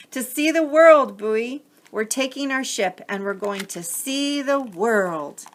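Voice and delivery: proud small sailors announcing their trip; tiny eager crabs. Acted. Crabs tell Bowie they're off to see the world, high eager voices.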